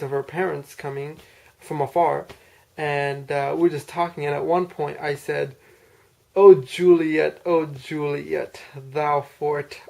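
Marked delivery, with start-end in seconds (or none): 6.3-9.8 slow, drawn-out mock-Shakespeare call; lightly theatrical balcony plea; mock Shakespearean. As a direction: stretch each word like a hammy Romeo. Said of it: "I wanted to say something Shakespearean".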